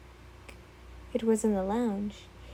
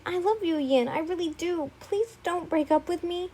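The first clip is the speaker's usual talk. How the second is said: put-on a lightly higher, pleading young man; pleading boyfriend; 4 semitones higher than usual. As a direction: beg her not to leave you. Izuku pleading with Yin.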